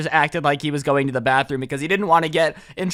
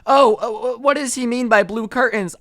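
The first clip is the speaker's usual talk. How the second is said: a higher, prissy mock teacher question; lightly put-on fussy teacher voice; mocking English teacher; 4 semitones higher than usual. Mocking English teachers over blue curtains, a higher mock voice. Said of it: "when teachers would just be like".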